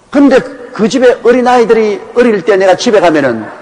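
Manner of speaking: ordinary talk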